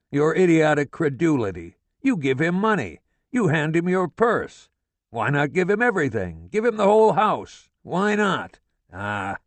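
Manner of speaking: father gloating at his wife about their son; exultant tirade. A narrator's reading. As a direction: crow over being proved right. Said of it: "He was exultant".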